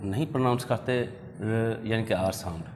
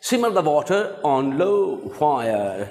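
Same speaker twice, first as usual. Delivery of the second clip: slow teaching read; 3 semitones higher, much slower than usual. Shown as a demonstration.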